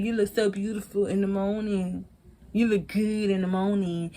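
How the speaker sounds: soft, lightly acted flirting; murmured compliment, gently hammed up; mock sweet-talk. Preston flattering his partner in bed, mock sweet-talk.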